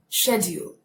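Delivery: "schedule" in a put-on British accent. Shown as a demonstration. Teacher showing the word when she has the accent, British accented. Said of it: "When I have the accent".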